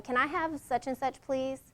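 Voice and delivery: "Can I have such and such, please?" asked gently and softly. Shown as a demonstration. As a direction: soften the request, no edge. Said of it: "it's gonna have a softer tone".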